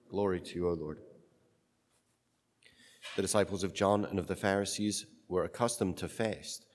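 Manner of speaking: solemn Gospel reading; cathedral echo. Acted. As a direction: read it like a liturgy.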